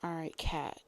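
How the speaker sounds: hushed under-breath whisper. Real, not acted. Whispered aside before calling on Kat.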